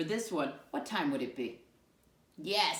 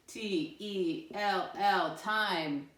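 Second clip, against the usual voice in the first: slow letter spelling; 2 semitones higher, much slower than usual. Shown as a demonstration. Teacher spelling a word slowly to the class, letter by letter. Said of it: "What do you hear?".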